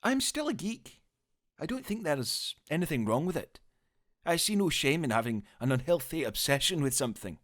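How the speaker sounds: high, quick geeky voice; eager, talking fast; David Tennant impression. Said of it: "it actually sounds a little bit more like this".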